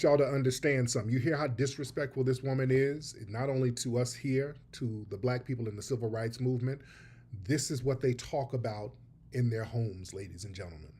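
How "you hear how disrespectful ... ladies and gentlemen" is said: a conspiratorial hush fading away; hushed, confiding. Real, not acted. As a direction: lean in and let it drop to a hush. Confiding to viewers, dropping voice.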